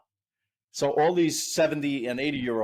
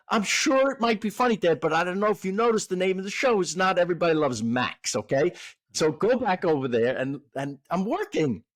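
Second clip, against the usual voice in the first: exasperated son; 5 semitones higher than usual. Retold or imitated. Son scolding father at work.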